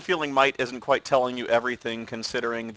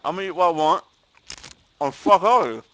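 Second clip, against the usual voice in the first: defiant yelling; 6 semitones higher, 7 dB louder than usual. Acted.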